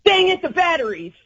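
good-natured annoyed outburst; exasperated. Shown as a demonstration. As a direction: toss it off with mock frustration. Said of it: "What do you say and how do you say it?".

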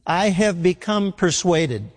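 "become" given weight in a measured, slow delivery; slow down and emphasize "become"; stress on become. Shown as a demonstration. Preacher repeating Paul's words for emphasis, stressing "become". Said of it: "Emphasis on become".

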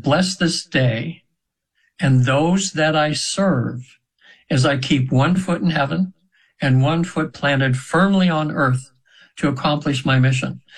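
slow, measured prayer with pauses; unhurried, deliberate prayer recitation; recited prayer. Retold or imitated. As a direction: recite it as a blessing, phrase by phrase. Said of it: "And I heard a prayer".

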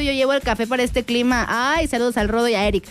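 ordinary talk

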